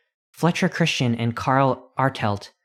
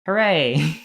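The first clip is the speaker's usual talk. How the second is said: cheer; 5 semitones higher than usual. Real, not acted. Reader finishing the silly story, happy cheer.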